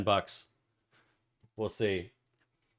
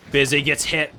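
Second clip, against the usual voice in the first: excited play-by-play; 11 semitones higher, 10 dB louder than usual. Pretend. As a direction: build suspense to a screamed climax. Frantic climax of match call.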